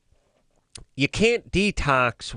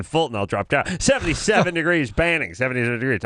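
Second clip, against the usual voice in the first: radio announcer; 3 semitones higher than usual. Pretend. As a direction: overplay a cheesy radio weatherman. Mock radio weather and traffic read.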